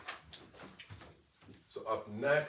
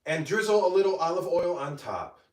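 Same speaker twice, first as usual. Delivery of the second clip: higher, louder cheerful voiceover presentation; voiceover read; 7 semitones higher, 5 dB louder than usual. Acted. Creator showing off her baked agga, bright voiceover. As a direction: present the finished dish like a cooking-show host.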